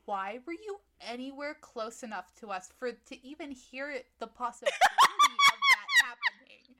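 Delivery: high, loud laughing outburst. Pretend. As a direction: shriek it while cracking up. Acted comeback, hysterical laughter.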